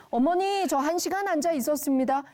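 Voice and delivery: a hint of a keen son; proud child. Praised son reporting to mother, proud.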